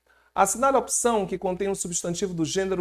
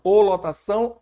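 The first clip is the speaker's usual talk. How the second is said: "ou lotação" with a light teacher's stress on the article; 5 semitones higher, 6 dB louder than usual. Shown as a demonstration. Teacher contrasting the two genders, stresses the article. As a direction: contrast "ou lotação" with the first take, louder and higher. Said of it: "O que que é o lotação".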